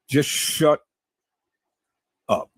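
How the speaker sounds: "shut", a long pause, then "up"; held-back curse. Real, not acted. Man telling his critics off without cursing, pausing before "up". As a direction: leave a gap before "up" where the curse would go. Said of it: "I just said, Shut up".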